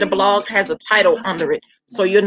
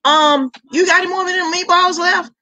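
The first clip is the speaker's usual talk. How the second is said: higher, eager voice begging for more; mimicking the husband and kids wanting more meatballs; husband and kids asking; 11 semitones higher, 3 dB louder than usual. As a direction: play the family hungry for seconds. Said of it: "My husband and my kids was like".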